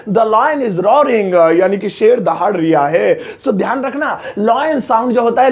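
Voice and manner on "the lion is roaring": the lion is roaring, drawn out very slowly; slow teaching demo. Shown as a demonstration. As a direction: spell it out word by word for learners. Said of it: "अब जैसे मुझे कहना है". (बहुत धीमे, सिखाने वाले अंदाज़ में)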